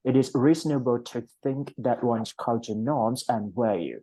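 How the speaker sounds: "It is reasonable" run together in one flow; linked reading. Shown as a demonstration. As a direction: model connected speech, "It is" linked into "reasonable". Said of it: "ก็อ่านรวบๆไป". (อ่าน "It is reasonable" รวบเสียงต่อเนื่อง)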